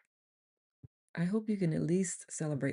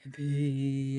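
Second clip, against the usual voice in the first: long drawn-out "V"; breathing-exercise hum. Shown as a demonstration. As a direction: hold the V on one even note. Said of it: "take a deep breath in and V out".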